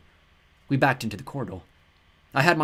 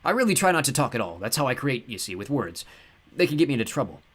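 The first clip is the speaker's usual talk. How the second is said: cheerful god voice; 4 semitones higher, 4 dB louder than usual. Acted. Ptah speaks.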